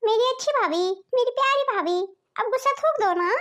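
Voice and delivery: coaxing, wheedling plea; butter her up to win her over; cajoling younger sister-in-law; sweet-talking. Acted. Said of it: "भाभी को पटाने की कोशिश करती हूँ".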